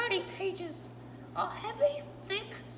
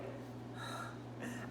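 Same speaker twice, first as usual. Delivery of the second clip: breathless sigh; 11 dB quieter than usual. Real, not acted. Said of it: "I need to catch my breath".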